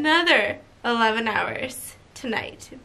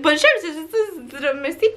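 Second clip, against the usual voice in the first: clipped French Bonjour, merci, laughing through the mock; French guy; 4 semitones higher, much slower than usual. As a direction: toss off Bonjour and merci like a bored French attendant. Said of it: "but he was like".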